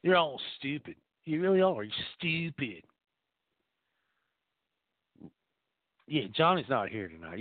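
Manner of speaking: lightly voiced redneck uncle, scornful; a hint of a bigoted Texas uncle sounding off; Jeb Kush rant. Character monologue as Jeb.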